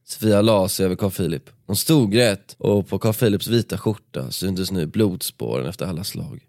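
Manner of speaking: steady dramatic read-aloud of a book passage; story narration. A narrator's reading. Podcast host reading the nightclub brawl to his co-host, dramatic narration. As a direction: paint the fight scene for the listener.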